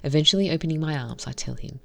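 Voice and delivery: reading a visual novel story aloud, evenly; story narration. Acted. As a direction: narrate the scenes and voice the heroine lightly.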